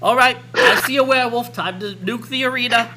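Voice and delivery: a hint of a loud queen; lightly voiced commanding queen. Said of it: "the queen isn't like".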